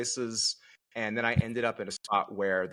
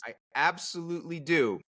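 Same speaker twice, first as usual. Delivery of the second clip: mock innocence; 4 semitones higher, slower than usual. Mock innocent reply to wife.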